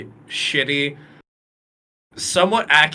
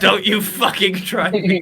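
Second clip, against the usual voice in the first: high, loud mock-British threat; hammed-up British warning; Yashin; 7 semitones higher, 5 dB louder than usual. Podcaster teasing co-host who objects to British voices, mock-British threat. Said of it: "make her even more British".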